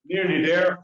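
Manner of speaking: winded from the stairs; puffing near the top; climbing stairs. Real, not acted. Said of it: "hard to talk and walk up a lot of stairs".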